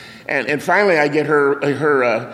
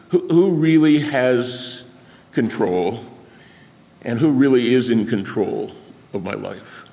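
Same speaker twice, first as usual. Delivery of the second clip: earnest slow emphasis. Real, not acted. Preacher asking the congregation who controls their life, slow and earnest. Sermon point, slow and fading.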